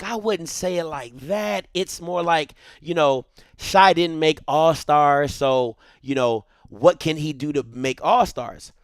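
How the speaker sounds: low, soft, measured suggestion; tactful wife. Retold or imitated. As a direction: imitate a wife gently toning it down. Wife tactfully rewording his angry text.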